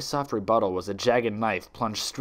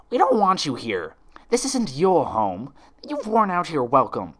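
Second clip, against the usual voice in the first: cold rejection; 6 semitones higher, 4 dB louder than usual. Acted. Friends drive Twilight away.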